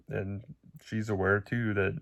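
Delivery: ordinary talk, nothing marked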